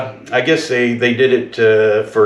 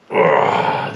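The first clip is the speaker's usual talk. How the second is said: low grunt of effort under a heavy weight; strained grunt; 8 semitones lower than usual. Real, not acted. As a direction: grunt as you lift something heavy. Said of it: "this thing weighs a ton".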